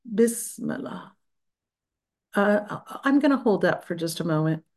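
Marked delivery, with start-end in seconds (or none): 0.1-1.1 breathy slow whisper of Bismillah; slow whispered word. Shown as a demonstration. Teacher leading the class in a slow whisper. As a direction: whisper Bismillah slowly, rising at the end. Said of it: "so let's just say".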